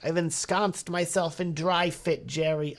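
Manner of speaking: slow, hammed-up sitcom parody; George. Recommending dry fit as a Seinfeld parody, drawn-out impression. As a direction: stretch it out in a put-on sitcom voice. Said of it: "George is like".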